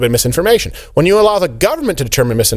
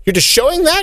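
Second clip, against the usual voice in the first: incredulous; 13 semitones higher than usual. Retold or imitated. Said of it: "I'm like".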